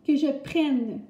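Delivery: "prenne" with a clear open è; carefully sounded "prenne", rhyming with "reine". Shown as a demonstration. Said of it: "le E accent grave".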